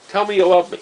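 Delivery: loud, high teasing tease; playful loud taunt; mock teasing demand. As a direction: demand it like a prankster holding all the cards. Ted teasing buddy on the pole.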